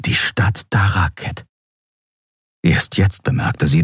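plain reading voice

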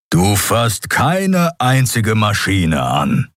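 slow, forceful mock threat; the Skria warning Endril, slow and firm; stern warning. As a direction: lay down the one condition, weighty. Skria points claw at her.

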